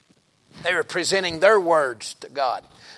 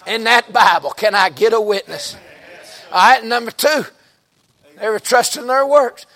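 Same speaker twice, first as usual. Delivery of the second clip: raised, louder, emphatic sermon voice; forceful preaching; 4 semitones higher, 4 dB louder than usual. Real, not acted. Preacher asking the church for a witness, forceful preaching. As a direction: press the point home to the congregation.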